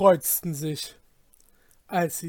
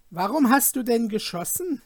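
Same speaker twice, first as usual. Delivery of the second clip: sullen; 6 semitones higher, 5 dB louder than usual. Acted. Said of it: "fragte der kleine Schalk unmutig".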